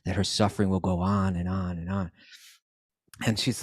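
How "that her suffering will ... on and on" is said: low, deliberate snake voice with hisses; hissing snake. Retold or imitated. Snake wants the mother-in-law to suffer, deliberate hissing voice. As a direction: speak evenly and break it with long hisses.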